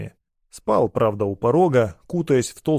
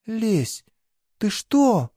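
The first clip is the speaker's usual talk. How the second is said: put-on much higher, stunned girl's voice; forced out; 10 semitones higher, much slower than usual. A narrator's reading. Girl stunned by her lover's cold words, forcing it out. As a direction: she can barely get it out. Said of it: "наконец выдавила она".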